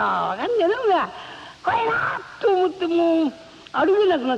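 high, slow, half-crying plea; pleading cry. Acted. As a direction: wail it out to press a reluctant friend. Presses friend for a real fear.

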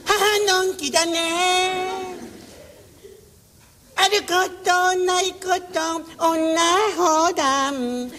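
put-on slow, lilting old-time stage singer, lightly done; drawn-out vintage stage patter; a light take on an old entertainer; impression of an old-time singer. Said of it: "ちょっと、あの歌手".

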